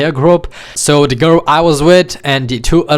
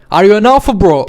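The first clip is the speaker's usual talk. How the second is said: put-on taunting drunk voice, higher and louder; drunk guy taunting; 4 semitones higher, 3 dB louder, faster than usual. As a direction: goad him like a drunk tough guy. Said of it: "He's talking like that".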